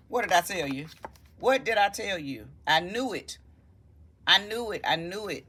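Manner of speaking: gloating I-knew-it delight; told you so. Real, not acted. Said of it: "Show me more, show me clearly".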